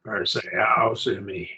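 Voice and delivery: "Or say, I'll see me" joined like a single word; run together as one word. Shown as a demonstration. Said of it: "pronounce them like they're one word".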